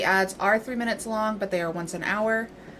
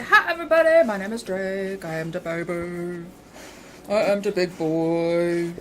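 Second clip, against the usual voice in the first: voicing the dog; 2 semitones lower, 3 dB louder than usual. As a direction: play the dog boasting he's a big baby.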